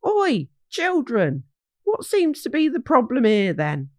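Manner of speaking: put-on hearty call from an old woodsman; lightly voiced friendly old hog; Horace Hogg voice. Horace greets the children.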